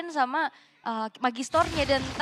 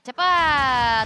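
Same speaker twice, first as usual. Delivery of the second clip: shouted hurry; 8 dB louder than usual. Real, not acted. Co-caster echoes the call.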